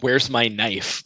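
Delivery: slow, drawn-out question; lightly acted shopper asking slowly; imitating a customer, slow and deliberate; Walmart customer. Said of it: "somebody at Walmart isn't like".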